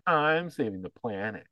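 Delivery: mock-smug boast; smug, arrogant. Retelling South Park's electric car owners, smug mock boast. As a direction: imitate someone pleased with their own virtue. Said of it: "getting all smug and arrogant".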